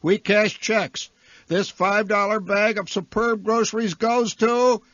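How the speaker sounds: theatre announcer. Acted. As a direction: announce a grocery prize to the crowd.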